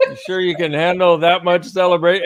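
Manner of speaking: high, loud playful tease; excited teasing. Real, not acted. Host teasing guests about celebrating, loud playful. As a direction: egg them on about the celebrating.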